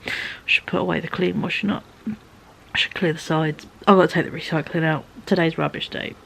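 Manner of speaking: inner voice. Retold or imitated. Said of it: "my sensible bit of my brain is looking in the kitchen going".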